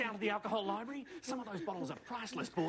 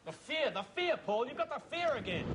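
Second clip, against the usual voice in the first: higher, teasing sing-song; mocking taunt; 6 semitones higher than usual. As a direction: throw his panic back at him. Mocking Paul's panic.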